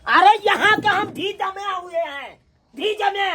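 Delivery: acted indignation over being slighted; indignant fuss. Visiting son-in-law complains about the food served, indignant. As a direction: make a fuss like an offended guest. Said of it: "किया हल्ला करे छथिन".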